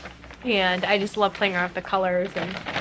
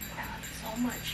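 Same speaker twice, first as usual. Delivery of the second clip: soft, much softer goodnight; tender hush; 12 dB quieter, faster than usual. Real, not acted. Mother saying goodnight to baby, much softer.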